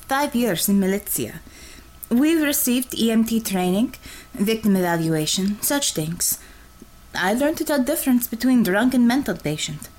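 a lightly voiced Russian woman, blunt and cocky; a light Russian accent, teasing the nervous driver; Russian commissar voice. Russian commissar teasing her driver, in a light Russian accent. Red Savior explains her training.

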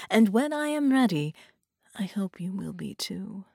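hushed, often whispered villainess; lightly voiced menacing woman. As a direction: purr the threats, drifting into whispers. Voices Carolina seductively.

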